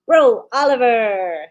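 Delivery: loud, slow, drawn-out excited call; reading out a viewer's comment with gusto; excited exclaim. Retold or imitated. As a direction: call it out like a thrilled friend across the room. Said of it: "Juanita exclaims".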